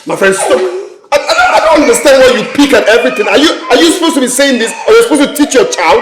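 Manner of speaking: a quick flustered row with her husband; exasperated protest. Acted. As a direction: rattle it off in outraged disbelief. Mother protests father's scolding.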